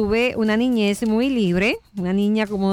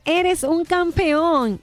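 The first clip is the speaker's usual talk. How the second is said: slow, high, ringing "¡Eres un campeón!"; the father shouting encouragement to the mountain; shouting praise; 6 semitones higher, much slower than usual. Acted. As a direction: stretch it out proudly, pitch up. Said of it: "El padre volvió a gritar".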